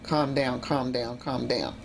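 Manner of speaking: low-pitched, subdued self-soothing; calming herself. Retold or imitated. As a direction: talk yourself down gently. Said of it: "I kept trying to say".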